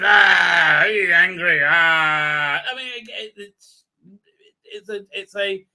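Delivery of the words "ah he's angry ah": mock angry shout. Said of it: "and she says".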